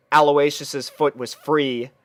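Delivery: ordinary delivery, nothing marked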